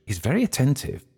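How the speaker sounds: high-pitched arch remark. A narrator's reading. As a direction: lift the voice, knowingly teasing. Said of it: "she said archly".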